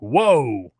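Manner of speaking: imitating medics, high and loud gasp of surprise; mock shock at the state of his feet; startled whoa. Medics seeing his feet, loud startled whoa. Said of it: "they were like".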